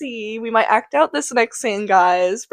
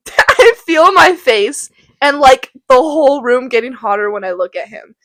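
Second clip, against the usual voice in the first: swooning Juliet. Acted. Juliet gushing about Romeo, mock swooning. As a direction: gush over the boy like a smitten teen, half-hammed. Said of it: "and then she goes".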